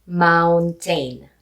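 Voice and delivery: Filipino-accented mountain. Shown as a demonstration. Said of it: "I will say the Filipino accent for it".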